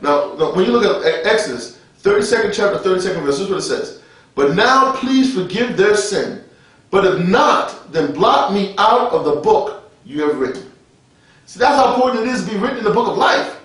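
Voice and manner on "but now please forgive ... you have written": slow, measured Bible reading; scripture reading. Real, not acted. Preacher reading Exodus to the congregation, slow scripture reading. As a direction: read it out deliberately, word by word.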